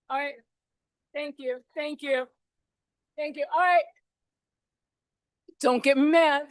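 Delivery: lightly voiced scolding mother; mild mock mom warning the room; shrill nagging mom. Shown as a demonstration. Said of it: "now I'm putting on my mom voice".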